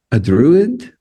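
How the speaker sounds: a hesitant, drawn-out stab at "Druid"; retold botched name, "Druid" stretched out; mispronounced name. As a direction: say "Druid" slowly in place of Druze. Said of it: "massacred the name somehow".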